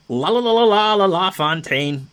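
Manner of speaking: lightly imitated goal-scoring call; Rick Jeanneret. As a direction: roll the "la-la-la" into the surname, at conversational volume. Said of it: "That is the Rick Jeanneret".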